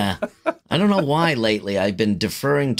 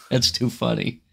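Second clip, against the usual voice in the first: ordinary talk, nothing marked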